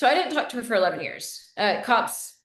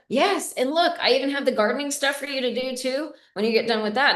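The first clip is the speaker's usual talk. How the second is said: higher, eager mom voice, pushy and pleased; imitating mom; 5 semitones higher than usual. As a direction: play the mother, thrilled to hand out chores. Mom eagerly pushing chores on me.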